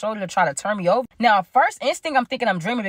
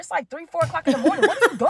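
much higher, exasperated questioning; acted indignation; 7 semitones higher than usual. Speaker to girlfriend at three in the morning, high exasperation. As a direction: act out being appalled at the late visit. Arguing with girlfriend who let herself in.

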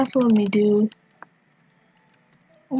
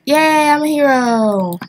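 drawn-out, higher cheer; celebrating; 4 semitones higher, 3 dB louder, slower than usual. Real, not acted. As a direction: cheer slowly and proudly over a win. Celebrates shooting the murderer in game.

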